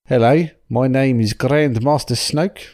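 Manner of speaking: lightly put-on New Zealand accent; a slightly better New Zealand accent; Kiwi accent. Showing the podcast listeners a mild New Zealand accent. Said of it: "so it's more like this".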